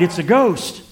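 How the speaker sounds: understated cry of alarm; mild fearful cry. Acted. Disciples in the boat sight a figure on the water, mild fearful cry. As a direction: cry out with a touch of fear. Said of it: "In their fear, they cried".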